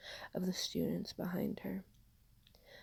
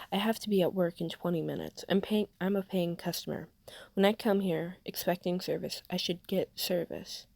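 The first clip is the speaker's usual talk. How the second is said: impatient demanding; 3 dB louder than usual. Acted. Customer demanding service, arguing.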